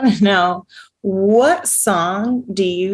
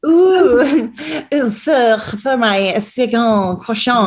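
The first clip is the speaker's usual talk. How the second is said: hammed-up mock French accent; a deliberately terrible French accent, playing for laughs; slow, silly French accent; bad French accent; 5 semitones higher, 3 dB louder, slower than usual. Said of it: "It's a terrible accent".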